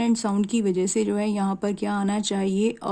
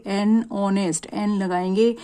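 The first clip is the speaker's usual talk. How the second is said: slow model reading. Shown as a demonstration. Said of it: "vowel sound की वजह से यहाँ पर भी इसके साथ हम लगाएंगे".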